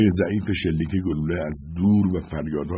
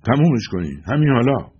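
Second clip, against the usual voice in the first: raised, higher commanding voice; loud, authoritative; 6 semitones higher, 5 dB louder than usual. A narrator's reading. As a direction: order them firmly and loudly. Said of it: "با صدای بلند و با اقتدار گفتم". (با صدای بلند و مقتدرانه)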